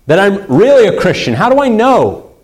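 a touch of pleading doubt; anxious wondering. Acted. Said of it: "we're always wondering".

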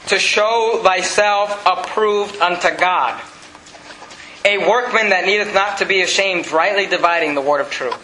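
measured, deliberate verse reading; scripture reading. Acted. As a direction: recite the verse carefully to the congregation. Reads scripture aloud to congregation.

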